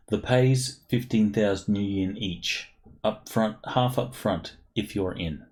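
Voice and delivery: put-on a light Quebecy French accent with a chuckle; lightly voiced Québécois captain greeting the team. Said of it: "in a Quebecy French accent coloring her speech".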